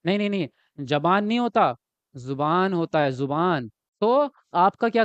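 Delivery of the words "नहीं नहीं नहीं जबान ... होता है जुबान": corrects जबान to जुबान, lingering on जुबान; fussy self-correction of जुबान; pedantic correction. Retold or imitated. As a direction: drag out जुबान with a falling, correcting tone. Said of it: "वो हर point पे टोकेगा".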